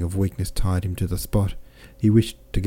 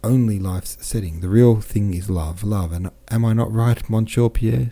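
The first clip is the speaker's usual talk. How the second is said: growing animated; 3 semitones higher, 4 dB louder than usual. Acted. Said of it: "growing animated".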